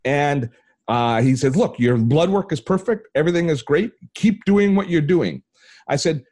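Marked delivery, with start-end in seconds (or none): 1.5-5.4 high, delighted doctor giving good news; retold giddy encouragement; giddy excitement. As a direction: imitate a super excited doctor, pitched up. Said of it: "Like, he was giddy".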